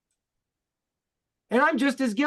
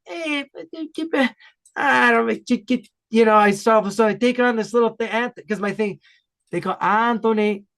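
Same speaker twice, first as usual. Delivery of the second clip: put-on Italian-accented relatives. Retelling how family talk brings it back, Italian accent. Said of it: "I slip into an accent".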